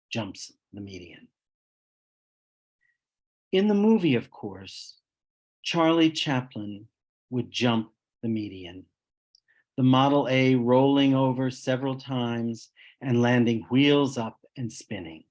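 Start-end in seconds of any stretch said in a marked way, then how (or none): 3.5-15.2 measured recital, phrase by phrase; poem reading. Acted. Poet reads the more serious title poem from his book, measured recital. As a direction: read the verse deliberately, with pauses at the breaks.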